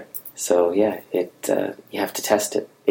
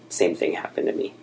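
soft, hushed confession; almost under the breath; said quietly; 5 dB quieter than usual. Retold or imitated. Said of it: "kind of quietly".

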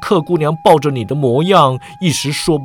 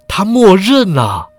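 startled question; 3 semitones higher than usual. Acted. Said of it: "郑恒洲惊道".

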